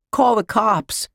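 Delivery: high, loud cry of outrage; alarmed yell. A narrator's reading. Josh finds his cookie tin empty, alarmed yell. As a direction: yell for help like a robbed boy. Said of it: "he yelled".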